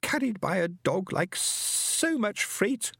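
high, slow alien voice; a lofty alien speaking slowly and high; stately high alien voice; alien Fenobe. Acted. Hershigan continues moaning.

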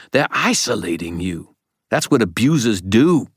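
urgent warning, climbing in pitch and force; desperate. A narrator's reading. Old man warning the boy about Mab, increasingly desperate. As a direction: plead harder as the argument builds. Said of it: "his voice desperate".

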